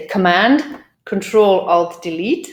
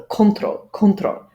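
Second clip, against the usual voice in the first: control stressed on CON; wrong control stress. Shown as a demonstration. Teacher demos the learners' first-syllable stress. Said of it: "So stress the first syllable".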